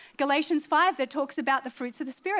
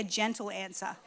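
soft echo; 4 semitones lower, 8 dB quieter than usual. Shown as a demonstration. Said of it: "somebody say".

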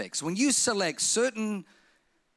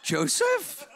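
calling out; 6 semitones higher than usual. Retold or imitated. Calling for Joseph.

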